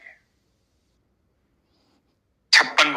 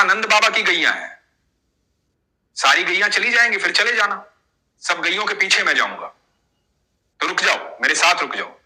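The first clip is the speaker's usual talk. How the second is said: put-on higher-pitched young cowherd boy calling out; a boy warning the old man to stop; 5 semitones higher than usual. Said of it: "तो बच्चे ने कहा".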